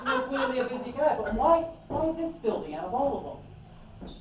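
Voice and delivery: put-on broad Boston accent. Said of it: "I lost my Boston accent for a second".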